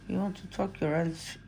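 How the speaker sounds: talking around a pin in the mouth; mumbled with a pin between lips; mouth full. Real, not acted. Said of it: "I'm talking with the pin in my mouth".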